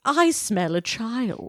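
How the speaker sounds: put-on slow, nasal witch relishing the word child. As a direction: draw out the line like a sniffing witch. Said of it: "hers would be a little more nasally".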